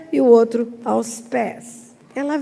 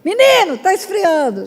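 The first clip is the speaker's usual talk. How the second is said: a high, loud mock call to the kid; imitating a mother calling her son to the table; 4 semitones higher, 3 dB louder than usual. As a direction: call him from the kitchen, a bit impatient.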